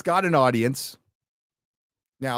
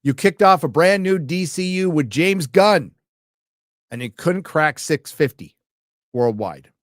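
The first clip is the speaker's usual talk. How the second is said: mock indignant; 4 semitones higher, 6 dB louder than usual. Quoting critique mockingly.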